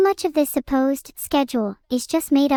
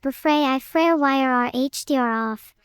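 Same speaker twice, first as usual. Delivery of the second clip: underwater gurgling voice. Pretend. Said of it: "consider that he's talking underwater, so it sounds weird".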